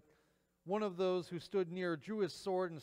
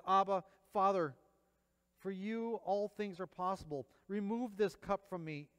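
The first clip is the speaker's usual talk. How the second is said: anguished prayer; 5 semitones higher, 5 dB louder than usual. Acted. Jesus praying in anguish.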